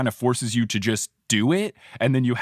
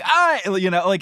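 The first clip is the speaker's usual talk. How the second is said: Cockney-ish Harry; 9 semitones higher, 4 dB louder than usual. Retold or imitated. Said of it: "where Harry's like".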